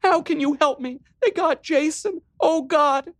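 put-on frightened girl falling apart; panicked sister. Riley panicking to her brother on the phone.

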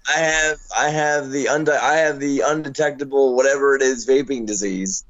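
rough, hoarse voice; scratchy worn-out voice; gravelly voice. Real, not acted. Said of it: "I don't know what's happening to my voice".

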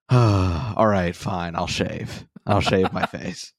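slow, grudging surrender; resigned. Retold or imitated. Reading a comment, he resigns himself slowly. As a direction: give in with a sigh, slowly. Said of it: "I was like".

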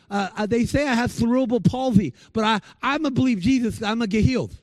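a hint of the boy's effortful, broken words; imitating a boy with cerebral palsy. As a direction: lightly mimic the boy's labored speech. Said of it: "he talked like this a little bit".

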